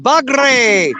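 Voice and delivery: "Bagre" with the r rolled, Spanish style; rolled R demo. Shown as a demonstration. Host demonstrating to the guest how to roll the r. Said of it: "You gotta roll your R".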